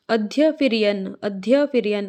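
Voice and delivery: अध्य and यन as separate parts; syllable split demo. Shown as a demonstration. Teacher breaks the word for students, अध्य then यन. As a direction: say अध्य, then यन, sounding y twice. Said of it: "दो बार ये आएगा".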